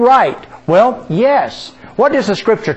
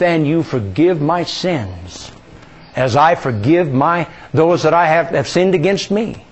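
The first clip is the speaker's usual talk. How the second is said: slow confession. Shown as a demonstration. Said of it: "say that as a statement of faith".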